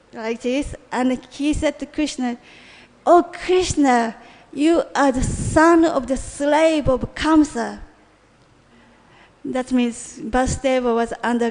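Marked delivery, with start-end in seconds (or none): 3.1-7.8 slow, louder accusing call, lightly acted; mock shout, stretching out each word of the insult; retold shout. Dying Duryodhana insults Krishna, a measured retold shout. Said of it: "started to shout at Krishna".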